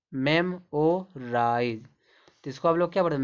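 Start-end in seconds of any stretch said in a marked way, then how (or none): 0.1-1.9 "मेमोराइज" drawn out slowly with a clear o in the middle; stretched "मेमोराइज", middle vowel a full o; wrong pronunciation. Shown as a demonstration. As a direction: slowly say "मेमोराइज" as mem-o-raaiz. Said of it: "गलत".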